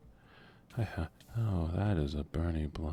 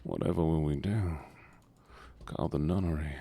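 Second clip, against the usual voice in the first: 1 mock melodrama. Mock dramatic alarm over teammate.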